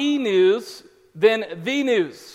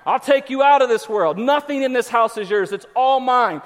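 higher, mock-stern dad's rant; old-school parent; 3 semitones higher, 4 dB louder than usual. Dad threatening kids over the toys, mock stern. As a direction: assert total ownership, hammed-up. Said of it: "I get old school on 'em".

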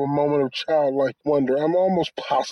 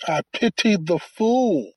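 slower, higher Mister T growl; Mister T impression; 4 semitones higher, slower than usual. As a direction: lean into the Mister T catchphrase. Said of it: "Mister T is forever".

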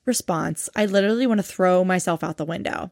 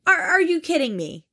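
high, slow, stretched-out disbelief; squeaky disbelief; 9 semitones higher than usual. Real, not acted. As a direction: stretch the words out in shock. Disbelief at goals remark.

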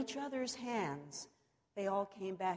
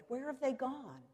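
praying; 6 semitones higher than usual. A narrator's reading. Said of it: "he prayed".

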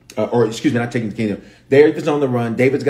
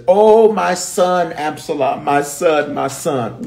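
slow, higher-pitched mock wail; weeping lament; 5 semitones higher, slower than usual. David crying over his son Absalom, weeping lament. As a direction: draw it out in acted grief. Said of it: "He cries so loud".

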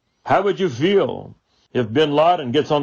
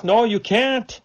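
emphatic refusal; 11 semitones higher, slower than usual. Retold or imitated. Jews' imagined answer, high.

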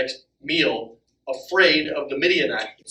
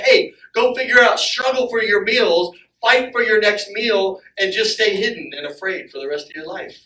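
voice of fear; 4 semitones higher, 4 dB louder than usual. Retold or imitated. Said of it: "it would be happy to just put you in a pit and say".

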